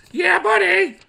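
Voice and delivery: high, loud hyped cheer; big high-pitched whoop of a line; catchphrase shout. Acted. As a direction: holler it as a rousing catchphrase. Shouts a catchphrase while reading.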